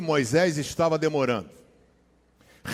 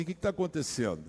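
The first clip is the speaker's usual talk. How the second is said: relaxed question; 8 dB quieter, faster than usual. Retold or imitated. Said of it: "minha irmã, relax".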